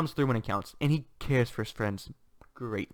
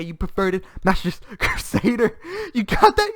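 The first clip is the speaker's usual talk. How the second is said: mock scolding; 8 semitones higher, 6 dB louder than usual. Acts out a scolding.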